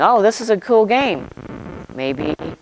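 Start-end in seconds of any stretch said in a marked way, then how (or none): 0.0-1.3 put-on young Isaac imagined as cheerfully naive; eager boy. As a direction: play the boy who thinks it's all a game. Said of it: "Maybe Isaac was willing".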